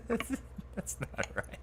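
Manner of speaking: high breathless laugh through the words; wheezing laugh. Real, not acted. Player laughing at a friend's bad Australian accent, wheezing. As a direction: wheeze it out, cracking up.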